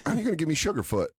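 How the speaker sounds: fast indignant mock student; quick hammed-up student complaint. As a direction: rattle it off in mock outrage. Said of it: "He goes".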